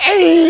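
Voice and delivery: loud mock wail; drawn-out loud imitation of a bawling child; imitated child's crying. Child refusing to admit fault, mock crying. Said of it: "울면서 하는데".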